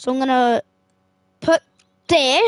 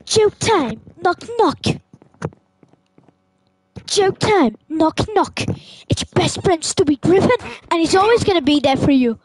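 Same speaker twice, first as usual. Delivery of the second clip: Stewie voice; 2 semitones higher than usual. Acted. Gamer playing Stewie talking to his friend. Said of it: "that Stewie voice".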